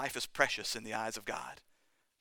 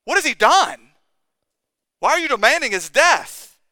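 much higher and louder, pleading outrage; outraged cry; 11 semitones higher, 15 dB louder, slower than usual. Retold or imitated. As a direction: cry it out as a shaken governor. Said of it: "As he looked at him, he says".

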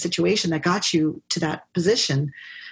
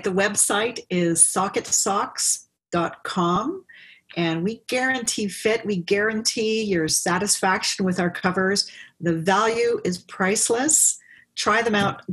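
upbeat ad read, higher pitched; product pitch; 3 semitones higher than usual. Acted. Founder pitching her socks to listeners, upbeat ad read. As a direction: sell it like a quick commercial.

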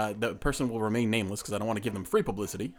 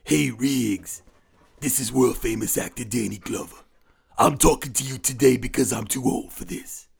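put-on voice with a Southern-sounding accent; world-famous actor impression, full-voiced; Roger Murtaugh; slower than usual. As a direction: imitate a weary cop in a very full voice. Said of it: "a mean Roger Murtaugh".

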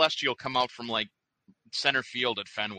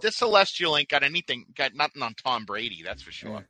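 put-on Boston accent. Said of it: "with a Boston accent".

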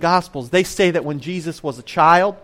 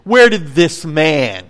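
dismissive question; 4 dB louder, much slower than usual. Retold or imitated. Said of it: "notice, whenever people speak like this".

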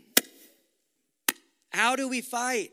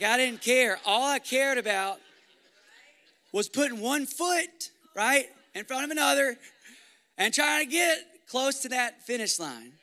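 rising preach; 3 semitones higher, 4 dB louder than usual. Acted. Preacher builds intensity.

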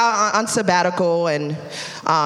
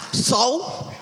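husband's upbeat reply; 10 semitones higher than usual. Retold or imitated. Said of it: "he's like".

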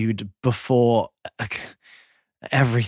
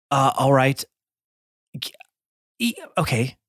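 talking around crunching ice; words through a mouthful of ice. Real, not acted. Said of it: "aggressively crunch on your eye".

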